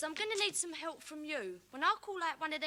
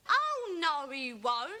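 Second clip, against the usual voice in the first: panto shout; 6 dB louder, much slower than usual. Acted. Panto oh no he won't.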